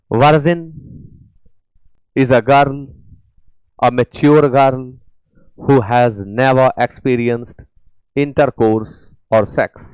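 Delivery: very slow, word by word English; deliberate classroom reading pace; slow dictation reading. Shown as a demonstration. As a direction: read it out slowly for the class to follow. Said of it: "teacher reads the English sentence aloud".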